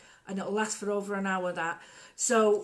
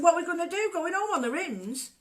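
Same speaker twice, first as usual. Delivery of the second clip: higher, louder mock panic; half-hammed alarm at the bad news; retold panic; 9 semitones higher, 4 dB louder than usual. On a rough street with a flat, panicking at the boyfriend.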